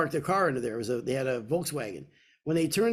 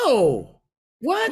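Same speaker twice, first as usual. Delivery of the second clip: a sudden higher squeak of surprise; startled, much higher "what?" of a nervous young man; panicked denial; 8 semitones higher, 6 dB louder than usual. Retold or imitated. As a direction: blurt it out, caught off guard. Caught lying to the father.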